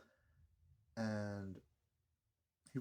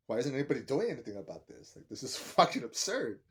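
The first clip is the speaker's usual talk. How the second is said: retold outrage; 2 semitones higher, 6 dB louder than usual. Voices Bella's outrage at suffering.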